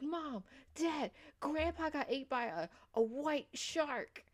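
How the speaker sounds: lightly hammed-up kid breaking bad news; imitating alarmed kid. Kid tells parents Grandpa got eaten, mock-alarmed high voice.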